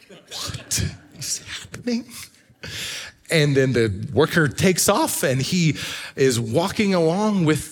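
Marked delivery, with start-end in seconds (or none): 0.1-2.1 hushed, wondering whisper; awed whisper. Retold or imitated. Boy at Disney whispering in amazement. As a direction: breathe it out in disbelief. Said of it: "and Caden is like".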